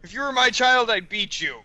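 loud, high mock drunk dad. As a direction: bellow like a drunk father. Playing drunk dad after remark.

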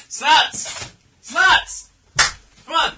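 shouting a name to call someone. Real, not acted. Calling out for someone.

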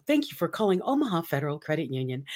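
quick scripted call-center greeting; phone operator voice. Retold or imitated. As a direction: rattle it off like a receptionist. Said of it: "That was my voice".

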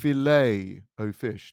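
FILET drawn out as "fi-LAY", T silent; French-style filet. Shown as a demonstration. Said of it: "you say".

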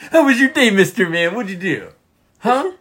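high, silly quizzing of a dog; pet-talk voice. Acted. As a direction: pepper a pet with questions in baby talk. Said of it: "when we talk in that voice".

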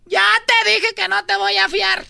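put-on old lady voice. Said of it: "Y me dijo".

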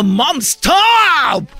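embarrassed daughter. Retold or imitated. Host imitating the daughter's comment, loud and embarrassed. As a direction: groan it out like a mortified teen. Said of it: "como diciendo".

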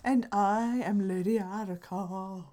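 lightly spooky villain voice; a hint of a creepy witch. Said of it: "That's my spooky voice".

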